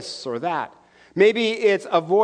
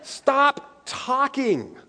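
booming voice of God; 6 semitones higher, much slower than usual. Retold or imitated. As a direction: thunder down from the cloud. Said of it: "an audible voice from the heaven saying".

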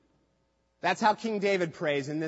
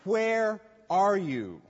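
despairing cry. Retold or imitated. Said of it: "He cries out in despair".

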